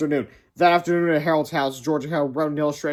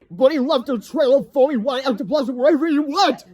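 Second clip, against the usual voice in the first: put-on much higher boy shout; hammed-up cry; 10 semitones higher, 5 dB louder than usual. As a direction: sell the ghost story.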